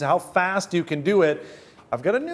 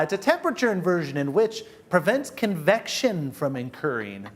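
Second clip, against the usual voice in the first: nerd voice. Acted. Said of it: "I have to use my nerd voice here".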